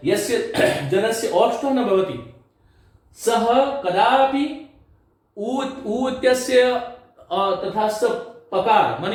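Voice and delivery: measured, formal Sanskrit phrasing; Sanskrit recitation. Shown as a demonstration. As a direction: recite the rule in Sanskrit like a pandit. (Sanskrit में धीमा पाठ)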